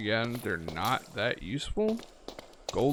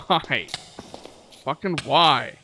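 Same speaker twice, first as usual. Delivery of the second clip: screaming at a spider; 3 semitones higher, 6 dB louder, slower than usual. Real, not acted. Spider attacking him.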